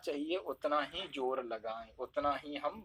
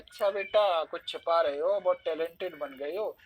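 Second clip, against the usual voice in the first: teasing a friend; 3 dB louder than usual. Acted. Friend suspected of hiding something, teasing suspicion. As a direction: needle a friend lightly, as if catching them out. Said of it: "अपने friend circle में कैसे कहते हैं".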